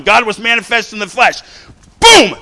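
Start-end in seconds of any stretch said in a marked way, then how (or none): 2.0-2.4 explosive high shout; triumphant shout after the verse; shouted boom. Acted. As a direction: slam it home like a hammer. Preacher punctuating scripture.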